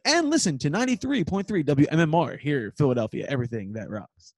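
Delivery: a light imitation of a DJ station ID; mock radio DJ tag line. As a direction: slip into a lightly voiced on-air promo. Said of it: "the radio voice".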